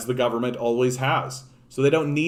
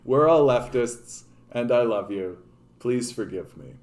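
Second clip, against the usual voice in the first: mock group ritual. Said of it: "something like that for the group".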